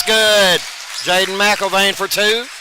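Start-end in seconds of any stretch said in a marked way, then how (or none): 0.0-0.6 a louder call as it falls; rising score call; excited call. Real, not acted. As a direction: call the basket with a lift.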